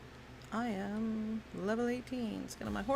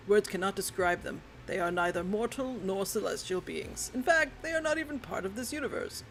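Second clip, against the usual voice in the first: lightly voiced wise old sage; a hint of an ancient elder; old man voice. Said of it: "That's my old man voice".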